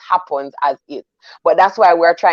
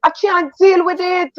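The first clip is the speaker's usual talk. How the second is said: mock exasperation; 7 semitones higher than usual. Venting about fake church answers.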